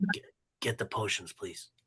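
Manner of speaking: barely voiced, hushed, very quiet whisper. After walking away, a player's character whispers to another character. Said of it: "I whisper to Herrick".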